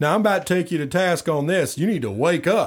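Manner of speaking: stern, no-nonsense tough talk, high-pitched and firm. Imitating Doctor Phil getting tough with people: tough Doctor Phil impression. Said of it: "I like when he gets tough with people".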